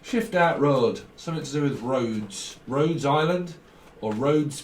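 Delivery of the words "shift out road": lightly imitated northern English accent; mock northern English, put on lightly. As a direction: talk like they do up north. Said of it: "they talk like that".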